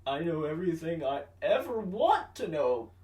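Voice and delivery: a lightly mocking comeback voice; snarky comeback. Grady mocking the rival, sarcastic mock comeback. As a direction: fire it back with sarcasm. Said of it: "Grady's like".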